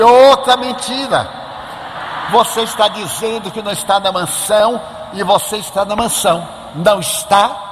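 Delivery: put-on nail the liar like a righteous kid; accusing child. Child accusing uncle of lying.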